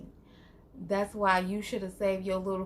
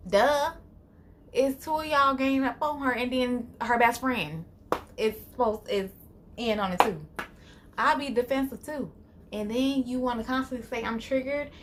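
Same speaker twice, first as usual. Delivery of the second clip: heated rant; 2 semitones higher, 4 dB louder than usual. Real, not acted. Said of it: "ranting in Robin's defence".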